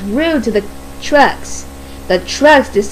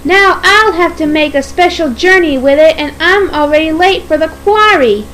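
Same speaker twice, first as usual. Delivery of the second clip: higher-pitched grumbling complaint; cross; 5 semitones higher than usual. Acted. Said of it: "Percy said crossly".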